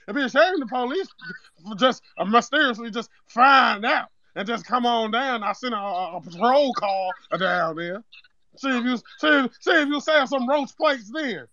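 put-on Zeke accent; Zeke-style street accent. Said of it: "the nigga sound like Zeke".

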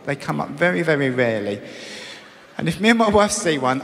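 usual speaking voice

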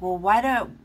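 a half-joking exasperated rant; indignant rant. Retold or imitated. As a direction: fire back at the critics, fed up. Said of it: "I'm like".

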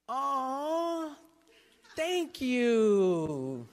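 a polite but flat thank-you; underwhelmed wife. Retold or imitated. Wife's muted reaction to flowers.

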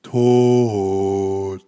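Tot said slowly and deliberately, as if spelling it out; stretched word. Shown as a demonstration. Asked to spell it, stretches out Tot. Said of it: "Kannst du's buchstabieren?".

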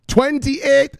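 high, loud, exasperated son voice; son yelling at mama. Pretend. Son shouting crypto news back at his mama, high and exasperated. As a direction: wave her off like a dramatic grown son.

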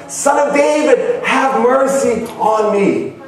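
high call, drawn out at the end. Retold or imitated. Preacher retelling the desperate blind man's second cry, insistent high call. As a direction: cry it out high, stretching the plea. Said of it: "He cried even louder".

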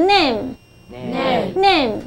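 "name" drawn out slowly as one blended syllable; model pronunciation. Shown as a demonstration. Teacher leads pupil to repeat after her, slow model pronunciation. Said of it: "来跟着我念".

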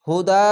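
হুদা with the last 'aa' held long; long final vowel. Shown as a demonstration. Teacher showing one-alif lengthening, হুদা drawn out at the end. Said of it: "এক আলিফ টেনে পড়বেন".

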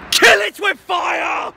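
slow, loud, high shout of disgust; mock horror shout. Hearing a band, hammed-up slow loud shout. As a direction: bellow it like banishing a monster.

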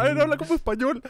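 high-pitched mock prompting; mimicked request. Spaniard mimicking people who ask for his accent, high mock request.

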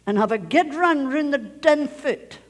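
father's order in Scots; Scottish. Retold or imitated. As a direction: say it in a Scottish accent. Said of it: "I'll say it in Scottish again".

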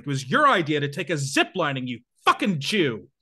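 mild mock shout, earnest and angry; half-volume angry yell, played straight. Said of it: "I shouted that pretty loudly".

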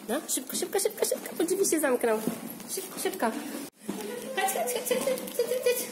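high singsong hurrying. Real, not acted. Hurrying toddler into the lift.

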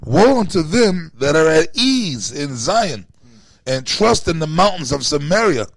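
slow, emphatic verse reading; scripture reading. A narrator's reading. Reading Amos to the listeners, slow and declamatory. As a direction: read out the verse deliberately, leaning on key words.

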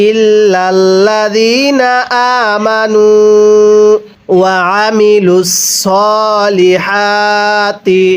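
slow melodic tilawat, drawn-out vowels; slow Quran recitation. Shown as a demonstration. Teacher recites the verse for students, slow melodic chant. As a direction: chant the verse slowly and evenly. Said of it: "মিলিয়ে পড়ুন।".

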